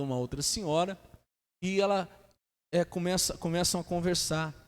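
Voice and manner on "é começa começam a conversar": ordinary delivery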